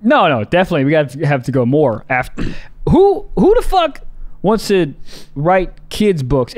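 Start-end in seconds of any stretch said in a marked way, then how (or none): 2.9-6.5 high-pitched mock disbelief; starts high, slows at the end; incredulous questioning. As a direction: demand it in halting, baffled bursts. Acted disbelief at wanting that career.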